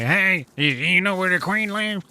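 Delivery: put-on an amateur British accent asking strangers the way. Uncle Tad asking a stranger for the Queen, British accent. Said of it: "the British thing is I can't do a very good British accent".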